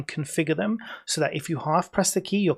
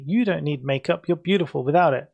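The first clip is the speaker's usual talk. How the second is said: louder mocking quote of men; 5 dB louder than usual. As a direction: imitate the smug compliment. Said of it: "Sends such an insane bolt of pure rage".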